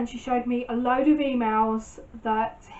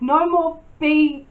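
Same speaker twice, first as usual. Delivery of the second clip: slow, louder, each word laid down firmly; firm retold telling-off; 3 semitones higher, 6 dB louder, slower than usual. Confronting her boyfriend on the beach about his lies, firm and slow. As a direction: tell him off slowly and firmly.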